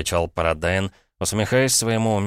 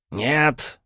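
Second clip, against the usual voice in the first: higher, sharp cry of no; shrieked no; 8 semitones higher than usual. Acted. Paradine, cornered about his past, yelps no. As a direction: cut him off in alarm. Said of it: "взвизгнул Парадайн".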